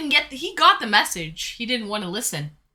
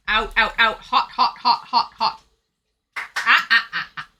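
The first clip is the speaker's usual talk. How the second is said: burning fingers yelp; 5 dB louder than usual. Real, not acted. Grabbing scorching hot pizza.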